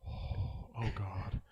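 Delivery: hushed, breathy mock dismay; retold stifled reaction. Friend retelling an awkward moment meeting Kyle, hushed and stifled. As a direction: murmur it under your breath, holding it in.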